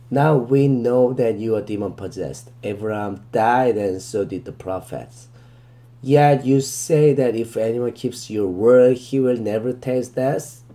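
very slow, deliberate verse reading, word by word; slow scripture reading. Shown as a demonstration. Teacher reading the verse to students, very slow and deliberate. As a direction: read it out slowly so students can follow.

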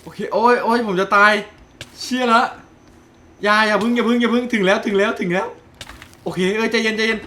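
high urgent cries; panicked pleading. Real, not acted. Gamer close to death, panicked pleading. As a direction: beg not to die yet. Player nearly dying, panic.

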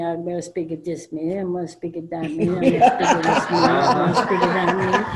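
fast, rattling mock of Mitch's chatter, laughing. Speaker mimics Mitch listing meetings, laughing and fast. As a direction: rattle it off teasingly. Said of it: "he told me".

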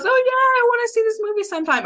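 high, fast, airy mock-casual voice; breezy noncommittal promise. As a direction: toss it off like an empty promise. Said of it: "this isn't one of those".

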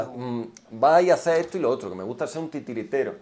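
ordinary talk

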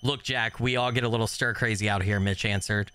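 light storyteller reading; story narration. Acted. Reading the game's ending text to viewers, lightly narrated. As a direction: read the ending like a campfire tale.

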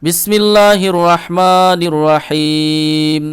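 very slow, melodic tajweed chant; teacher begins the recitation; Quranic recitation. Shown as a demonstration. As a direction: stretch each vowel, chanted. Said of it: "তো চলুন শুরু করি।".

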